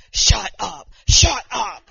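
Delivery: loud shout of happy disbelief; loud thrilled shout; excited disbelief. Retold or imitated. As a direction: yell it, can't believe it. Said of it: "she's over there going".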